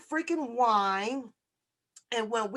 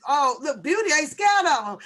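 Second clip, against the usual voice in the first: raised, louder mock brag as Beauty; imitating Beauty; 3 semitones higher, 6 dB louder than usual. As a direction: playfully ham up Beauty's boast. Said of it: "she said".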